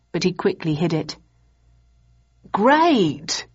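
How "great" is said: bright but forced "Great"; uneasy enthusiasm. A narrator's reading. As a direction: fake a cheerful yes. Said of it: "he enthused, slightly uneasily".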